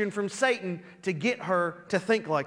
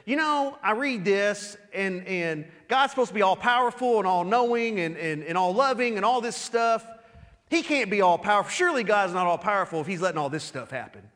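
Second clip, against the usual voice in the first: quick, doubting skeptic's complaint. Shown as a demonstration. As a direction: rattle off the objection as a doubter. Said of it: "That would sound like this".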